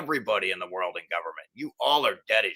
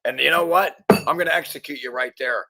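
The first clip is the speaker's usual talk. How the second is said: raised, furious threat; angry rant; 5 semitones higher, 5 dB louder than usual. Real, not acted. Ranting at officials, furious and loud. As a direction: spit out the threat loud and high.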